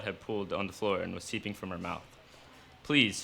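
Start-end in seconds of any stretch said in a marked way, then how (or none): 2.8-3.2 a mildly begging plea, slightly louder. A narrator's reading. Injured wife pleading with her husband, mild begging. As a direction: plead with him, understated. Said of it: "she begged".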